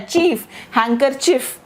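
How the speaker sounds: "हैंकरचीफ" ending in a clear cheef; hang-ker-cheef for "हैंकरचीफ"; silent D. Shown as a demonstration. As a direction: show "चीफ", then "हैंकरचीफ" without the D. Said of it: "ये इसकी pronunciation है".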